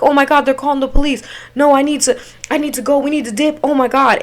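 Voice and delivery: fast, mildly panicked chatter; urgent, flustered pleading; freaking out. Retold or imitated. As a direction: babble it in a retold panic. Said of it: "I was freaking out because".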